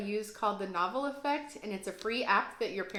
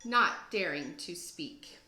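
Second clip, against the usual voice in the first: put-on lively rhyming read-aloud for kids; story narration. A narrator's reading. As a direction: read it like a teacher to second graders, with bounce. Teacher reads picture book aloud.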